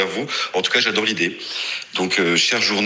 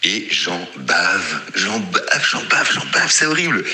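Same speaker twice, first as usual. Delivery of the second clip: plainte qui monte; slower than usual. Real, not acted. Plainte sur le sevrage qui monte.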